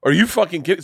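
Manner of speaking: loud, high mock outrage; retold can't-believe-it outburst; incredulous. Club fitter hearing about a four putt, incredulous.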